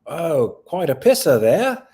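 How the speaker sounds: half-hearted Aussie voice; bad Australian accent. Guessing at how Australians sound, in a bad Aussie accent. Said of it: "I can't do an Australian accent".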